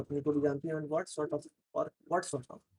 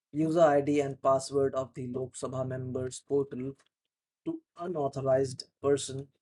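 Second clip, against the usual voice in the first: careful, clear reading of a news article; news read-aloud. Shown as a demonstration. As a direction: read it out slowly so students can follow. Reads article aloud for practice.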